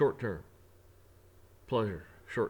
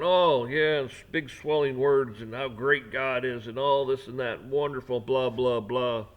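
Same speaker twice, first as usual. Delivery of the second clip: mock grand prayer; 6 dB louder, slower than usual. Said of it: "people out there with their great big prayers going".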